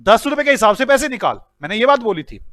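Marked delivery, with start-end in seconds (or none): 0.0-1.4 loud scolding of the manager; mock angry boss, louder. Shown as a demonstration. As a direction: bark out the numbers. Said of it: "मैंने कहा था".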